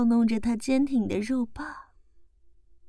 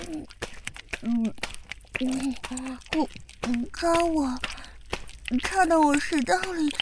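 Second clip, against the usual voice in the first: slurred, mouth-full mumbling; words blurred as if mouth full; mumbling indistinctly. Acted. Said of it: "含糊不清地说道". (含糊不清地说)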